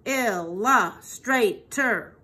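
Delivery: ILLUSTRATOR slowly split into four parts; "Illustrator" in slow, evenly spaced syllables. Shown as a demonstration. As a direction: sound out "Illustrator" beat by beat for clapping. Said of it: "Let's clap that".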